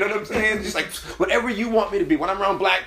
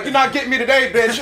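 mock tough voice; 7 semitones higher, 6 dB louder than usual. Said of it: "It's like".

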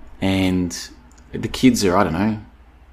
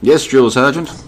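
yes sir military reply; 3 semitones higher, 3 dB louder, slower than usual. Pretend. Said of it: "She's like a drill sergeant".

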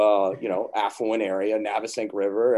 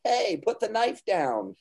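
higher, slow careful warning; parental warning; 10 semitones higher, slower than usual. Retold or imitated. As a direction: caution a toddler firmly.

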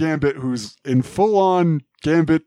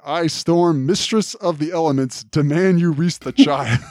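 lightly voiced proclamation, a touch high; a mild mock heroic announcement as Storm; Storm announcing; 4 semitones higher than usual. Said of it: "announces that".

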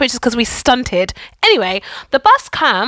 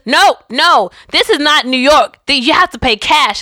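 lightly put-on New Jersey accent; a hint of a New Jersey bus driver; 4 semitones higher, 4 dB louder than usual. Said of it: "my awful New Jersey accent".

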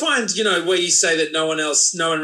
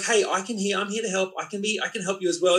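reassuring parent; 4 dB quieter, faster than usual. Retold or imitated. Parent soothing screaming toddler.

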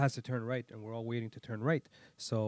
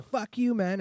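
high, louder acted road-rage outburst; mock angry curse; 10 semitones higher, 6 dB louder, slower than usual. Imitating expected reply from driver, mock fury. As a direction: curse them out like an irate driver. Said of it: "they were expecting a".

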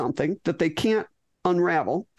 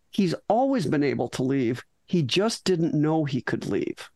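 calm and clear; 3 semitones lower than usual. Retold or imitated. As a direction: state it calmly, like a settled truth. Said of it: "says very clearly, very calmly".

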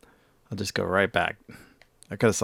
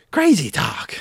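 breathy whispered aside; whispering; 7 semitones higher, 3 dB louder, slower than usual. Pretend. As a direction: drop to a whisper. Hushed aside after the outburst.

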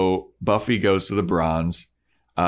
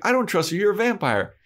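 much higher mock-whiny Buffy; hammed-up high Buffy; 12 semitones higher than usual. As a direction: refuse him in a high mocking tone. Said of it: "She's like".

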